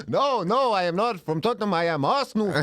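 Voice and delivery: heavy put-on Eastern European accent, slow; hammed-up foreign accent. In a role play he answers the nosy old lady, hamming up a foreign accent. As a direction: ham up a foreign accent, dropping articles. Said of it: "I'll, I'll do the accent".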